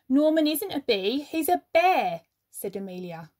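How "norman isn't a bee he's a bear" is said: louder, higher, gotcha tone; triumphant accusation; triumphant reveal. Acted. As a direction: announce the catch with triumph. Amelia unmasks Norman.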